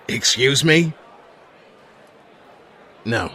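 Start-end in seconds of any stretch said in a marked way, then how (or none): 0.1-0.9 sharp, high, loud outrage; indignant. Acted. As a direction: bristle at the insult. Phone caller insults him.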